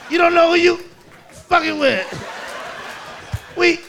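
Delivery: put-on little kid menacing the man leaving; bratty toddler threat. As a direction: threaten like a tiny tough guy.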